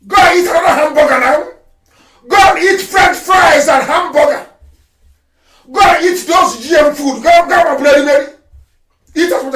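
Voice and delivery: loud, scornful taunting; mocking shout. Real, not acted. Leader scolding Igbo in America, loud scornful mockery. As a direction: jeer at them, loud and contemptuous. Mocking diaspora who eat hamburgers.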